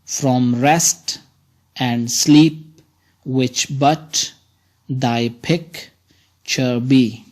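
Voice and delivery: slow, measured reading of the verse line; poem recitation. Shown as a demonstration. Teacher reads a sonnet line to students, slowly measured. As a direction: read it out, each foot paced. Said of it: "In this line".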